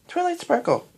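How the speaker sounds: put-on high child voice with a smile; smiling. A narrator's reading. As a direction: introduce yourself as a pleased little girl. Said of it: "said Twilight with a smile".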